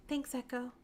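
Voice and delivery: soft, understated thanks; a touch of tearful gratitude, softly; sniffly gratitude. Acted. Comforted friend thanking Echo, mildly sniffly gratitude. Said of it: "sniffled out a voice of gratitude".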